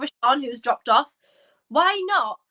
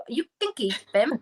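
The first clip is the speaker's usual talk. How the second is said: lightly mock Welsh accent; Welsh lilt. Shown as a demonstration. Podcaster replaying own slip for co-host's laugh, Welsh lilt. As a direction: say it again with a hint of Welsh. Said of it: "I sounded Welsh there".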